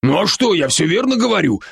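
бодрый, чуть выше голос друга-оборотня; успокаивает друга, слегка играя роль; Рон, заботливый друг. Acted. Ron's voice again. (оборотень Рон уговаривает друга дышать)

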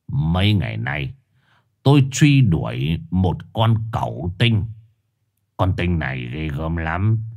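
a hint of a stern old shaman. Shaman explains himself to the family, sternly. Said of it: "nghiêm giọng".

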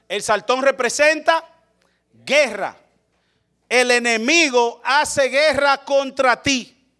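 slow, weighty teaching from the pulpit; preacher hammering the point; emphatic preaching. Acted. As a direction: drive each word home to the congregation.

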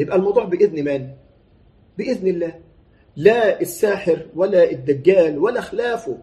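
ordinary talk

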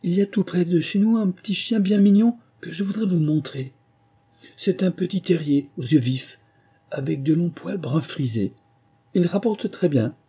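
high-pitched enthusiastic chatter; keen young heroine showing off a favourite; lively, eager. A narrator's reading. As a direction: gush eagerly, pitched well above normal. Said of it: "et Alice dit vivement".

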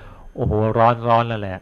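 slow imitated yelp of heat; a mild put-on burnt-mouth exclamation; mock startled cry. Monk guessing what the burnt brother cried, slow mock yelp. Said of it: "ถ้าให้อาตมาเดาก็คงบอก".

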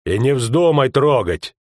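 slow, grudging warning; gruff grumble. Acted. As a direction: forbid it firmly, drawn out. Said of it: "буркнул Скомлик".

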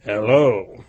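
put-on low growl, old Scrooge voice; put-on gruff old Scrooge; feigned gruff growl. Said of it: "growled Scrooge in his accustomed voice".

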